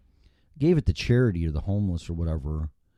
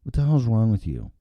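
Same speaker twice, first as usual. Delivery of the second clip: angry customer rant; 3 semitones higher than usual. Pretend. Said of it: "Sincerely, an asshole customer".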